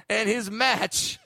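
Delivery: slow announcer build-up; lightly voiced ringside announcer; fight announcer. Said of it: "Fox special".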